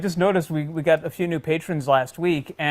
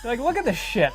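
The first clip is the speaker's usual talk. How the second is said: high mock gush; imitating co-host; 6 semitones higher than usual. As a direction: teasingly echo a co-host's awed squeak. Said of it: "I like how you called it".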